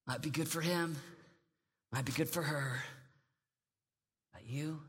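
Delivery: low, soft taunting voice; devil's whisper. Acted. Preacher voicing the devil's lie to teens, low and soft. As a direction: whisper doubt like a tempter. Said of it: "the lie of the enemy is he looks at you and he goes".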